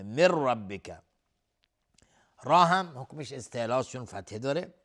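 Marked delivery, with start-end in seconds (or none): 0.0-1.0 من ربک as "mir-rabbika", no hum; merging without ghunna. Shown as a demonstration. Teacher showing noon before ra, clean merge. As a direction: merge the n of من straight into a doubled r. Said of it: "ادغام بدون غنه".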